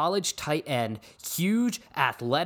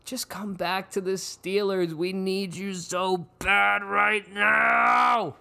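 drawn-out plea; 6 semitones higher, slower than usual. Acted. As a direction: plead in a long wail. Pleading to Antonio Brown.

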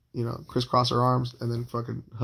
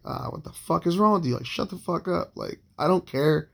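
raised pitch, mild mock yell; exasperated retort, pitched up without real shouting; retold yelling; 6 semitones higher than usual. Man retelling his rant back at her, mock yelling. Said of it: "me yelling at her".

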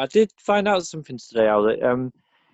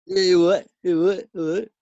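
higher, altered-voice you all right; put-on voice greeting; 5 semitones higher than usual. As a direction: repeat it in a silly voice. Mocking repeated greeting.

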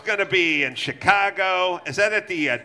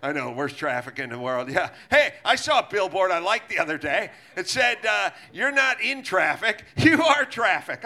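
mock Newsom; 4 semitones lower than usual. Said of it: "And he goes".

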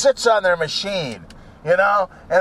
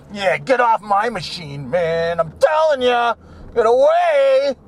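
mock gym hog; 3 semitones higher than usual. Gym hog guarding his machine.

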